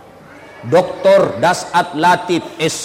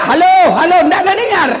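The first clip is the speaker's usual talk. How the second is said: high, loud retold phone yell; mock yelling; 9 semitones higher, 4 dB louder than usual. Caller with handset upside down, mock yelling. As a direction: yell as if the line were dead.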